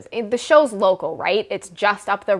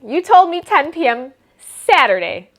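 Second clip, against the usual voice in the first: surprised; 4 semitones higher, 5 dB louder than usual. Retold or imitated. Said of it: "And I'm like".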